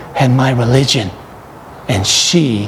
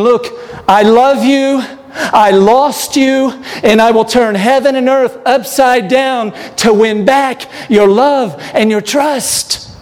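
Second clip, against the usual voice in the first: voicing God; 10 semitones higher, slower than usual. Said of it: "God was saying".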